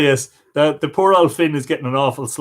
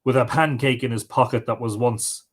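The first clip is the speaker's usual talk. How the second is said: expressive storyteller with rising and falling pitch; folk tale narration. Acted. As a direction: read an old tale aloud, lively dialogue included. Reads a folk tale aloud.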